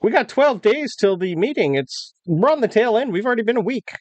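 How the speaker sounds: high-pitched officer explaining the march; army officer. Acted. Officer explains the army's timetable, high-pitched character voice. Game master plays officer.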